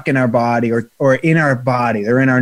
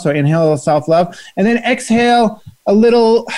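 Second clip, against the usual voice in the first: guided breathing; 2 semitones higher than usual. Acted. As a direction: ease the listeners into letting go. Leads a short breathing exercise.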